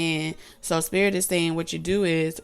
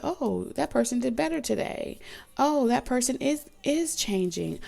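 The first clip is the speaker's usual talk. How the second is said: mocking; 6 semitones higher than usual. Mocking the fakers' praise.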